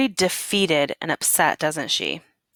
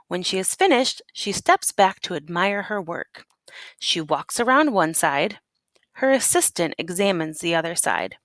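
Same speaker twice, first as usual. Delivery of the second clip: story narration. Acted. Teacher reads picture book aloud.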